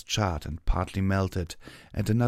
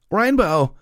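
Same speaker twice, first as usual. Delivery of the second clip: loud, high anguished cry; 12 semitones higher, 10 dB louder than usual. A narrator's reading. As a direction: cry her name out in alarm. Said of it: "Applejack cried out".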